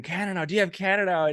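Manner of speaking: put-on older ladies. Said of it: "horde of older ladies".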